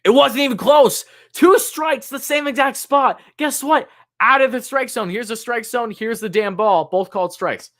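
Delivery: high-pitched indignant rant at the umpire; outraged rant. Real, not acted. Fan outraged at umpire's strike calls.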